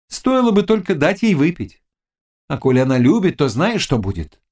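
high-pitched scheming witch voice; sly witch. Acted. Witch advising the lovesick Cossack on potions, high and knowing.

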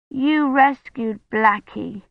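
put-on high, slow little-girl voice; a small girl delighted; grateful child. Agnes thanks Kivrin, high child voice.

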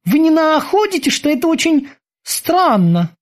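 a sudden pang of worry; worried boatswain. A narrator's reading. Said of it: "неожиданно заволновался боцман". (взволнованный голос боцмана)

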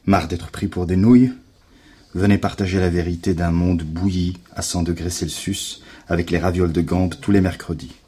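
measured, mock-earnest proclamation; lecture déclamée d'un tract. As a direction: read the leaflet out like a solemn rallying call. Lit un tract à voix haute. (lecture de tract faussement solennelle)

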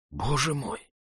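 shocked concern for a friend; with fright and sympathy. A narrator's reading. Andrei hears of Oblomov's stroke, hushed and alarmed. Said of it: "с испугом и участием сказал Андрей".

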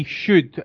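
should stretched out and leaned on; stress on should. Shown as a demonstration. Host stressing that the Thursday show only should happen, stress on should. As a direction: hit the word should hard and slowly. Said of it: "I really do emphasise the word should".

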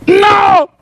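high shouted refusal; stubborn refusal. Acted. Beggar refusing to step inside, high stubborn mock shout. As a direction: cry out a defiant, drawn-out no.

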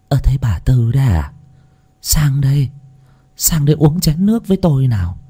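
a hint of an old village woman inviting someone in; lightly voiced old woman. Voices old Mrs Hạnh in the story.

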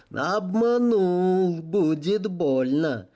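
slow, with a knowing half-smile; amused, like catching a naughty child; slight half-smile. Acted. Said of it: "С лёгкой полуулыбкой".

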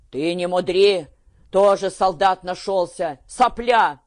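a father cutting his daughter down; rising angry rebuke; angry scolding. A narrator's reading.

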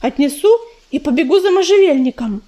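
talking through clenched teeth; mouth full. Acted. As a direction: mumble it with a mouthful. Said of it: "не разжимая зубов, промычал".

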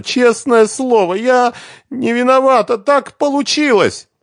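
high, loud, slow sobbing protest; through tears. Acted. Svetlana pleads her innocence to Renat through tears.

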